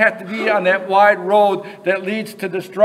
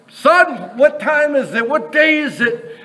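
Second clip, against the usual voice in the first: high-pitched call down to the street; eager, raised-pitch storybook cry; imitated yelling Scrooge; 6 semitones higher than usual. Scrooge yells to a boy in the street on Christmas morning, calling out high. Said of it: "he yelled down in the street".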